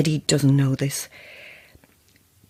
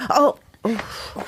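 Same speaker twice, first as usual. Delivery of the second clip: crying; 4 semitones higher than usual. Acted. In pain climbing the stairs.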